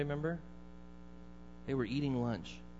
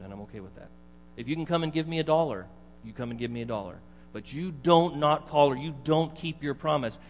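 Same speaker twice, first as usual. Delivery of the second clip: stern grandpa; 3 dB louder than usual. Retold or imitated. Grandpa voiced lecturing on promise.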